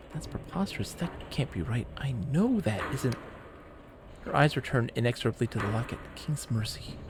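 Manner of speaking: soft, fading mild dismay; a hint of a voice close to tears; near tears. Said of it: "on the verge of tears".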